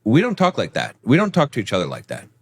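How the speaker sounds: calm, steady team-leader tone; authoritative leader. Shown as a demonstration. Husband to wife, calmly setting a shared rule. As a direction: lead as the captain of the ship. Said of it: "it actually sounds more authoritative".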